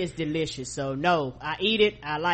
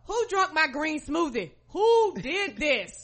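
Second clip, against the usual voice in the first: higher, half-laughing mock wail; yelling across the room; 7 semitones higher than usual. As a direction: wail it like a betrayed parent. Mock parent wailing.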